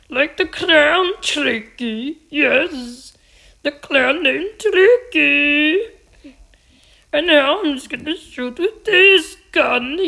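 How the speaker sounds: put-on sing-song made-up accent. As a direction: stretch the last word of each phrase in a silly foreign accent.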